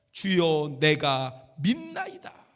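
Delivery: low, loud, slow declaration; weighty low-pitched profession of faith; solemn confession. Acted. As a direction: proclaim it deep and full-voiced, drawing out the end. Acts out blind man's confession.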